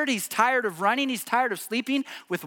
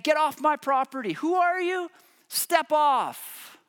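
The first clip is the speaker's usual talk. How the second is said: higher, brushing-off voice of a rude landowner; dismissive Nabal; 6 semitones higher than usual. Retold or imitated. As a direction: wave them off your property with contempt. Voicing Nabal telling David off.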